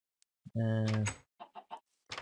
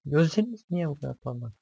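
scared, raised voice; 4 semitones higher, 4 dB louder than usual. Real, not acted. Scared of glowing mob eyes.

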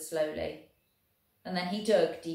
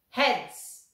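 loud resonant call; 6 semitones higher, 7 dB louder than usual. Acted. Welshman calling the coin toss to both armies, loud and ringing. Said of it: "called out in a loud, resonant voice".

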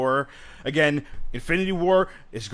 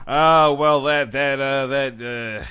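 put-on southern accent; 5 dB louder, much slower than usual. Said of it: "I have a southern accent".

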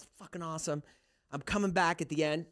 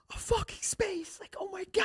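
pitched-up mock rapture; excited; 5 dB quieter than usual. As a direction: draw it out in hammed-up wonder. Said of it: "I'm so excited".

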